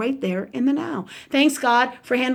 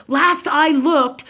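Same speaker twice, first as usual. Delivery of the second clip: slow, higher and louder mock indignation; imitating a nasty aunt; 4 semitones higher, 5 dB louder, much slower than usual. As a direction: put someone down, as a retold jibe. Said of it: "really nasty and unwell with it".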